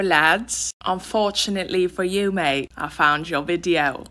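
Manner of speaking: a hint of a cheeky British lad; mock British accent. Roasting the guy from the video in a light mock British accent.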